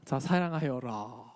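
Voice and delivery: slow, lightly voiced lordly command; commanding god voice. Speaker imitates a distant god ordering love, lightly. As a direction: hand down the order slowly. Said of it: "하면".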